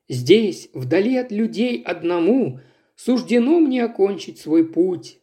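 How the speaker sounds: poem recitation. Acted. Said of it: "начал декламировать вслух".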